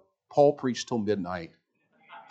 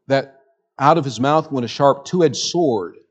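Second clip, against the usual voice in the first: preaching loud; 4 semitones higher, 8 dB louder than usual. Real, not acted. Preacher building to a point.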